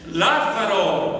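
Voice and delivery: huge high shout, very loud; Jesús. Acted. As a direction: roar it out with full intensity. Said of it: "a gran voz". (grito potente a gran voz)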